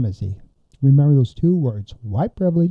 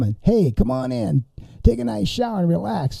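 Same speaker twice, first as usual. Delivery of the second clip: soft, higher, fake-welcoming lilt; pretend friendly; 6 semitones higher, 5 dB quieter than usual. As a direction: coax them in with mock friendliness. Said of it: "We gotta pretend like we, uh, like 'em".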